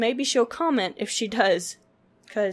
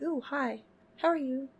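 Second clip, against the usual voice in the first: softer, sweet cooing greeting; cooing at a wasp; 4 semitones higher, 6 dB quieter than usual. Retold or imitated. Kid greeting a wasp on her skin, gently cooing. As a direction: greet the bug like a little friend. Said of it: "look at it like".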